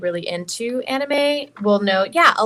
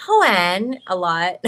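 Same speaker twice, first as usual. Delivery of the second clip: Himiko voice; 3 semitones lower, 4 dB louder, much slower than usual. Acted. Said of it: "you know, she goes".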